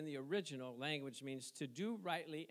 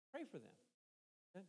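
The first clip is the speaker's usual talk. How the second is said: much softer and slowed right down; soft, slow plea; 10 dB quieter, much slower than usual. Acted. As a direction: let it sink in, slow and soft. Pleading with the congregation to pray.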